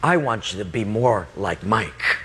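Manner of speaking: low, deliberate instruction; God. Retold or imitated. God to student about his friend, low and measured. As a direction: pitch it down and pause before the point. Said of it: "He said to me".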